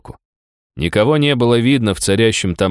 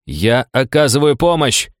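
shouting back; 5 semitones higher than usual. Acted. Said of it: "крикнул я в ответ".

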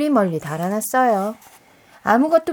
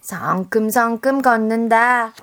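loud slow call; 4 dB louder, slower than usual. Acted. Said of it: "따라했어요".

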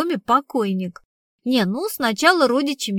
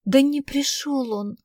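higher, slow, tearful reply; mildly sobbing; 4 semitones higher than usual. Acted. Girl answering about her boyfriend, mildly sobbing. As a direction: say it with a slight whimper. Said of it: "всхлипнула девчонка".

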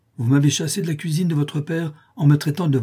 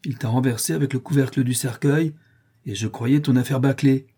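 frightened plea; 5 semitones higher, 3 dB louder than usual. Acted. Potter distraught, pleading.

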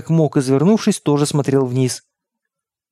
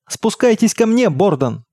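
high-pitched summons; calling out; 6 semitones higher, slower than usual. A narrator's reading. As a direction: call him over, pitch jumping up then falling on the name. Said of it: "позвал мой отец".

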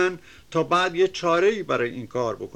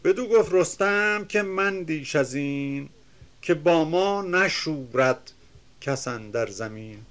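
measured, chanting reading of epic verse; reciting classical Persian verse; poem recitation; 2 semitones higher than usual. Acted. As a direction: declaim the couplets with rhythm.

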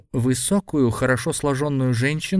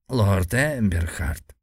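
slow creaking elder's voice; creaky old man; 2 semitones lower, much slower than usual. Acted. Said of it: "проскрипел старик". (скрипучий старческий голос)

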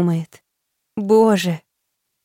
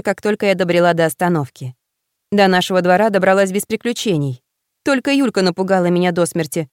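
usual speaking voice

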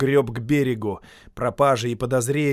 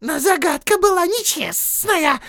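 much higher, louder whining creature; Gollum voice; 7 dB louder than usual. Acted. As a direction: whine that it was unfair. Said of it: "ответил Голлум".

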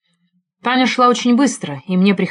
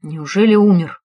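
as gently as possible. Acted. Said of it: "спросил как можно мягче".

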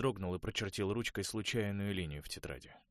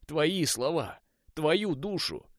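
higher, much louder bitter shouting; 8 semitones higher, 10 dB louder than usual. A narrator's reading. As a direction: hammer every phrase home. Конор кричит в горечи. (Конор громко и с горечью убеждает Уэса)

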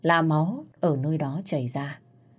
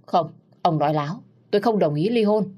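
angry refusal; 3 semitones higher, 5 dB louder than usual. Acted. Wife refuses divorce angrily.

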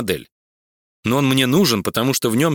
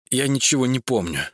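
suffering. A narrator's reading. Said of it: "страдальчески произнёс сыщик".

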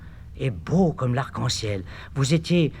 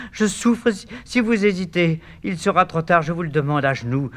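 pleading; 5 semitones higher than usual. Acted. Eurydice dying, pleading.

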